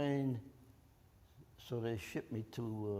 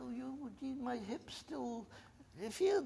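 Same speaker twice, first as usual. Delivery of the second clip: breathy, halting, slow mock-sick whisper; faking sickness; 11 semitones higher, 4 dB quieter, slower than usual. Soldier fakes being sick to the nurse, slow halting mock-weak whisper. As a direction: play it up like you're too hurt to leave. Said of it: "tell them you're still sick".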